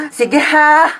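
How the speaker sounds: exasperated, emphatic threatening rant; fed-up mother. Acted. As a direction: scold with mounting sarcasm. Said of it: "Tumataas yung high blood ko sa'yo". (galit na nanay)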